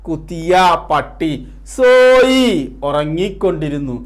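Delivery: measured recital with drawn-out key words; poem recitation. Acted. Teacher reciting a Hindi poem with Malayalam meanings, slow poem recitation.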